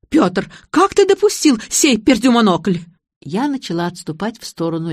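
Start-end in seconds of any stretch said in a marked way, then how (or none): 0.1-2.8 higher, louder scolding outburst; furious outburst. A narrator's reading. Bride scolds the groom, high and furious. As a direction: lose all decorum and lay into him. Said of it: "забыв о безупречном поведении".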